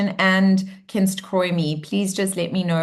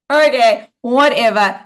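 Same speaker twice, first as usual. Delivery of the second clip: dismissive monkey mind; 5 dB louder than usual. Shown as a demonstration. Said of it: "when your monkey mind goes".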